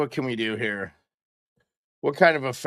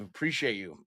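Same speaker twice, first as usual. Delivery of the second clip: said through a yawn; words stretched by a yawn; 6 semitones lower, 9 dB quieter than usual. Real, not acted. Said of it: "I don't know why I'm yawning".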